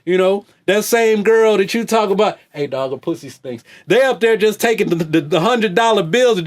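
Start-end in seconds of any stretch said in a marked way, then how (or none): 2.5-3.6 a hint of a dopey fan talking; mocking dumb fan voice. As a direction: lightly sneer as a clueless fan. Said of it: "That's what y'all sound like".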